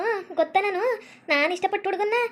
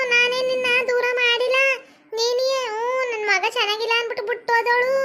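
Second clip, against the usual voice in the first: tearful pleading; 3 semitones higher than usual. Acted. Mother-in-law pleading with the ghost to go, higher and tearful. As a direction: beg the ghost to leave through tears.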